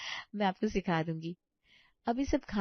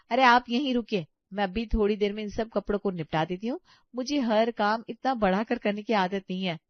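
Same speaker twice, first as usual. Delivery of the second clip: louder, fast dismissive; huffy bahu; 2 semitones higher, 5 dB louder than usual. Acted. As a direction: cut her off impatiently. Neha refuses mother-in-law's help. (झुंझलाई बहू, तेज़ और ऊँची आवाज़)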